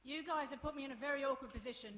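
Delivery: high-pitched exasperated reproach; indignant scolding. Acted. Acted row over the boys.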